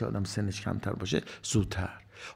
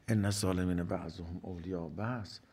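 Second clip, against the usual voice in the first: "ان الظالمین بعضهم اولیاء بعض" recited low and soft; quiet recall of verse; 4 semitones lower, 5 dB quieter than usual. Real, not acted. Preacher recalling a verse to himself, low and soft.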